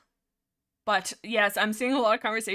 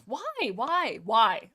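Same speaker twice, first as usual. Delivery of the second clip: exasperated shout; 4 dB louder, much slower than usual. Real, not acted. Repeating "why" in exasperation.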